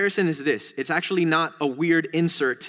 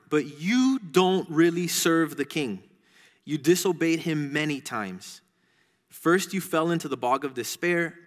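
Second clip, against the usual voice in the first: lightly voiced accusing dragon. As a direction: read a dragon's charges to children, measured and deliberate. Reads the dragon's accusation from kids' book.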